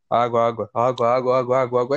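very low, monotone repeated call; water seller. Retold or imitated. Water vendor at the cathedral, low droning call. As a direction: drone the word like a bored hawker's loop. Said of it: "Ele não falava nada".

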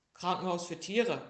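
loud little-bear voice; little bear answering. A narrator's reading. Little bear telling the elephant, proud answer. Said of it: "sagte der kleine Bär".

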